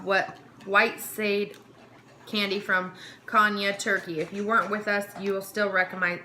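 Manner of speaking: upbeat product voice-over read; script read. Acted. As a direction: read it like a snack-box ad.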